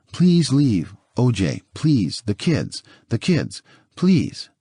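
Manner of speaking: begging him, half-sobbing; lightly voiced tearful plea; desperate pleading. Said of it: "Nicole is sobbing by this time".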